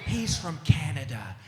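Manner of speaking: slow, indulgent aww; mock sympathetic American. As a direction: pity him as you would a lost kid, drawn out. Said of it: "Everybody just goes".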